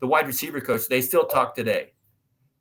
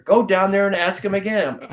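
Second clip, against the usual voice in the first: retold dad's firm order, pitched up; insistent order; 6 semitones higher, 3 dB louder than usual. Dad sends son back to the warehouse, insistent. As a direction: overrule him with a raised, insistent voice. Father insists over son's protest.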